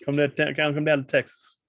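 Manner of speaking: hint of a Texas pitchman inviting folks down; light Texan accent. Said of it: "I'm making a Texan accent".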